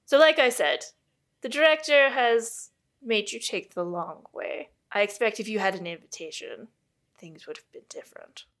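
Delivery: put-on brisk invented accent, fading at the end; the speaker's put-on accent. Astronomer explaining the long way round, in a put-on accent. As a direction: lecture them in a light put-on accent. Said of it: "I don't know what this accent is I've decided on".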